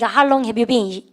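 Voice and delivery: slow classroom repeat-after-me; very slow drill reading. Shown as a demonstration. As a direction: say it slowly so students can follow. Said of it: "해보세요".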